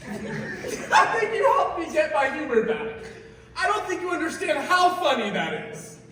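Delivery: giggling, delighted; laughing. Acted. Customer laughing to the clerk over getting their humor back.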